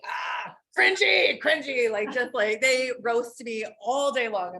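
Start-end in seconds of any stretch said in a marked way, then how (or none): 0.1-1.9 mocking shout. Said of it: "and just be like".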